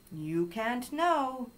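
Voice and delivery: drawn-out parrot squawk of British English; loud British accent. A narrator's reading. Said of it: "loudly in a British accent".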